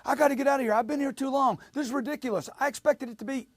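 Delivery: high-pitched, worked-up complaining; emotional customer. Acted. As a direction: play an agitated customer venting in someone's face. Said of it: "Some guy's getting emotional in my face".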